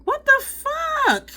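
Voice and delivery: a high, slow, cracking yell of disbelief; frustrated shout. Real, not acted. Vlogger watching a freckle fall off, shouting in frustration. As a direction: shriek it out in real frustration. Freckle sticker falling off live.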